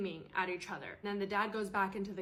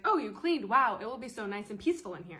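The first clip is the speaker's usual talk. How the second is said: louder, bright, fast gushing; gushing praise; 6 dB louder than usual. Retold or imitated. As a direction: overdo the delight at the cleaning. Host mimicked, gushing.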